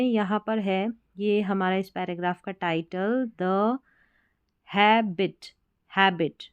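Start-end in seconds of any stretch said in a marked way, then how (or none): 4.7-6.4 slow, clear model reading of Habit; careful reading. Shown as a demonstration. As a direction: sound out Habit carefully, h then ae. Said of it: "Habit का मतलब आदत".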